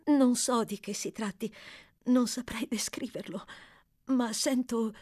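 slips into a whisper mid-phrase; half-whispered confession. A narrator's reading. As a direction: voice drops to a breathy whisper on the middle line. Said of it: "come se ella stesse piangendo". (confessione sussurrata a metà)

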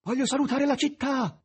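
loud, high call to someone ahead; shouting. A narrator's reading. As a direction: shout it out over a distance. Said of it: "gridò il maestro".

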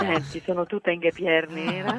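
husky, slow, laughing a little; lost voice with a chuckle; hoarse voice. Real, not acted. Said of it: "voce da maschio".

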